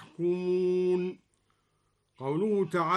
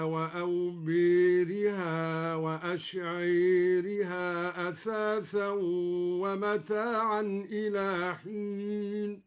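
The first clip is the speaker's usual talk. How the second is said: Quran recitation. Shown as a demonstration.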